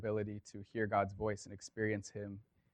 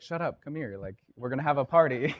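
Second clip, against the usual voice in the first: eager father; 4 semitones higher, 7 dB louder than usual. Retold or imitated. Dad cuts son off joyfully.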